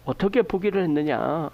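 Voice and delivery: ordinary talk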